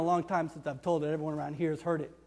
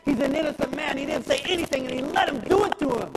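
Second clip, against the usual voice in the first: loud, high, passionate outcry; outraged; 8 semitones higher, 6 dB louder than usual. Acted. Barabbas protesting the innocent man's death, shouting. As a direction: cry out at the injustice.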